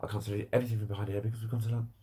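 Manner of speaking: rapid, run-together retold refusal; cutting in. Shop worker refusing before the customer has finished, cutting in quickly. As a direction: rattle it off as a mock brush-off. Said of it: "Before I'd even finished".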